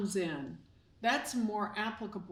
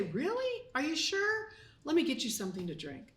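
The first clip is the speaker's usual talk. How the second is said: much higher, fast, pushy hostess voice; insistent host; 6 semitones higher than usual. Retold or imitated. A host pressing a guest to take a drink, insistent. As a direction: play the host who won't take no.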